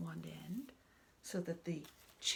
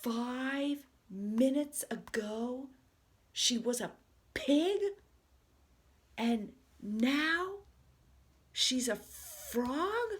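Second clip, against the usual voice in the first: slow, loud, higher and rising in alarm; alarmed outcry; 5 semitones higher, 9 dB louder, much slower than usual. Acted. Gerald alarmed that Piggy changed, loud slow outcry. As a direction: blurt it out in growing panic.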